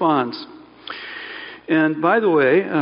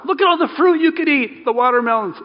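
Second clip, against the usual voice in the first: enthusiastic showing off; 9 semitones higher, 3 dB louder than usual. Acted. Preacher voicing positive God framing.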